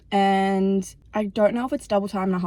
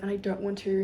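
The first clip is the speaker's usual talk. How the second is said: whispering through real anger, trying to hold it in; angry whisper; 5 dB quieter than usual. Real, not acted. Vlogger holding back anger while eating apples, in a tense whisper. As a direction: keep it to a tense whisper so no one hears. Trying not to get mad.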